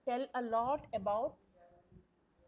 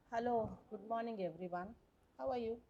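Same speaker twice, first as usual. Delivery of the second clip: unwell, uninterested; 4 dB quieter than usual. Shown as a demonstration. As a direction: greet the room as if feeling poorly. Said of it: "if a person is not well".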